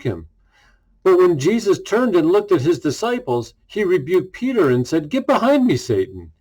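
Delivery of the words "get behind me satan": stern rebuke. Acted. Jesus rebuking Peter, a stern command. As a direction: rebuke him firmly, then drop hard on the name.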